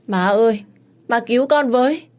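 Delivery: put-on a small boy calling for help in panic; child's frightened plea. Child cries for mother's help.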